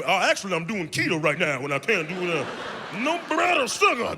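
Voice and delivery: mock picky dieter. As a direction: ham up a kid refusing candy for keto. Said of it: "no kid is actually".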